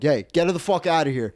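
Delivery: retold bouncer's demand; mock angry order. Doorman orders a drunk woman out of the club, mock angry order.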